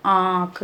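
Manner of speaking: आँख with the vowel nasalised through nose and mouth; nasal vowel demo. Shown as a demonstration. Teacher demonstrating chandrabindu to pupils, nasal vowel. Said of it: "नाक से होता है और मुंह से होता है".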